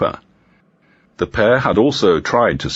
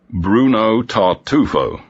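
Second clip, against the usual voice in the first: slow thoughtful repeat; 4 semitones higher, slower than usual. Acted. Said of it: "repeated Inspector Evans".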